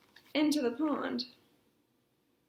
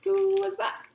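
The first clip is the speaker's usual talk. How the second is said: loud demand; 7 semitones higher, 8 dB louder than usual. Acted. King hears tapping.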